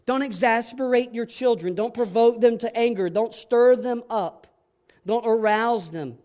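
usual speaking voice

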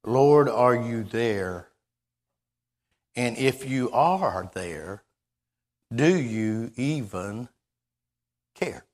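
slow, hushed pleading prayer; mild imitation of a crying man asking God; a slow broken plea to the Lord; retold tearful plea. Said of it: "crying and saying".

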